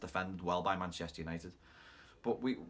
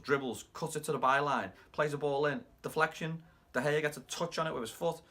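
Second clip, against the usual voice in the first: excited goal commentary; 5 semitones higher, 3 dB louder than usual. Retold or imitated.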